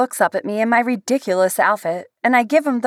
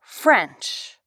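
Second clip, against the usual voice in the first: deadpan; 2 semitones lower than usual. A narrator's reading.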